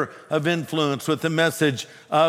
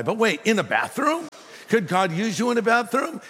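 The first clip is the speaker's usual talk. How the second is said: higher-pitched, doubting questions; incredulous; 6 semitones higher than usual. Retold or imitated. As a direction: voice a puzzled second thought. Acted-out doubting thought in story.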